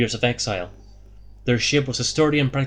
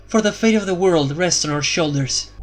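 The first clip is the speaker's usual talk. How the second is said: Elara, resolute; 6 semitones higher than usual. A narrator's reading. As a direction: launch the quest as Elara.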